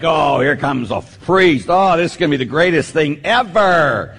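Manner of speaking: put-on sarcastic gushing teen voice; mock excitement. Priest mocking bored students' fake excitement. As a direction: fake enthusiasm, dripping irony.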